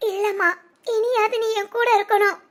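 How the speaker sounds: cling to mother through tears; crying. Acted. Daughter begging her mother to stay with her, crying. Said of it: "அழாதடா, ஏன் இன்னும் அலற".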